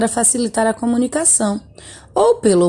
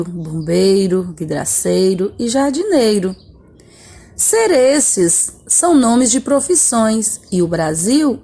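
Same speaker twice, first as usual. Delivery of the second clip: poem reading. Shown as a demonstration. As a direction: recite it for the class, unhurried. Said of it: "Vamos ler esse poema". (leitura de poema em voz alta, pausada)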